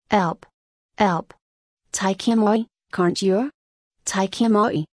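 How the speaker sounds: understated Cockney cries for help; Cockney accent. A narrator's reading. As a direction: plead in broad Cockney without really shouting. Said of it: "the hated Cockney".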